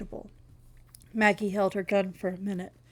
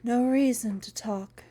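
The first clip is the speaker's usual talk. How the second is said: strange breathy voice. Acted. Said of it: "in a strange, breathy voice".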